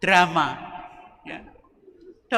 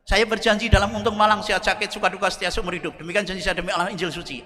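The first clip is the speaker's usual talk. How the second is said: a hint of a firm groom reciting the wedding vow; lightly voiced, steady bridegroom taking his vow; steady groom's vow; 4 dB quieter than usual. Groom vowing to his bride at the wedding, lightly steady. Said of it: "Yang laki tegar".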